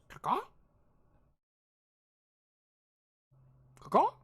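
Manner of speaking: high, loud rising bird caws; questioning caw. Acted. GM voicing the curious hippogriff with head cocked. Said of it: "cocks its head and goes".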